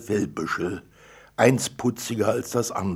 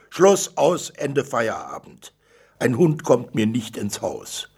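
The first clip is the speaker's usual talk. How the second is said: final angry outburst; 3 semitones higher, 7 dB louder than usual. Acted. Father ending the dog debate with his daughter, loud and final. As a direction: slam the door on the discussion.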